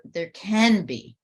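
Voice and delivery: slow down and lean on can; stress on can. Shown as a demonstration. Teacher insisting healing has layers, stressing can. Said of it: "there can be many levels".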